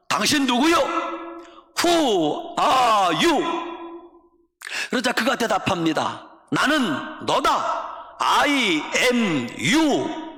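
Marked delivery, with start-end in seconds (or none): 0.1-3.4 high cry, English words stretched out; shouted challenge. Retold or imitated. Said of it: "윌리엄 부스가 소리 지릅니다". 6.5-10.3 very slow, each word drawn out; solemn revelation. Retold or imitated. Mysterious man's answer, acted.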